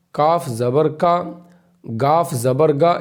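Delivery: slow, deliberate reading of each letter with zabar; slow syllable drill. Shown as a demonstration. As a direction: spell out every letter and its sound, slowly, for beginners. Drill continues. (آہستہ آہستہ حرف اور زبر کی آواز پڑھانا)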